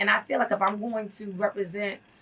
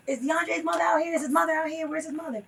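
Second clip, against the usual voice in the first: higher-pitched imitation of an announcer; calling on a mic; 6 semitones higher than usual. Protesters on the mic seeking a prisoner's mother, calling out. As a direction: retell them calling out for someone. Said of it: "they were on the mic like".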